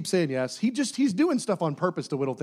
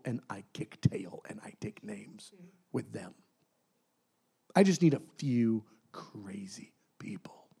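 softer, slow whispered boast; whispered confiding; 3 semitones lower, 6 dB quieter than usual. Acted. God confiding his plan in a slow whisper. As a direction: lean in and whisper it.

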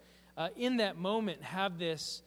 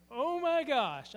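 high, slow, moved oh my gosh; nearly in tears with joy; retelling a gasp of amazement, much higher and drawn out; overwhelmed gasp; 8 semitones higher, 4 dB louder, slower than usual. Retold or imitated. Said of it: "I'm gonna start crying myself".

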